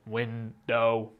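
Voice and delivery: window split into slow robotic beats. Shown as a demonstration. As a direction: window said like a machine, syllable by syllable. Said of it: "right, like a robot".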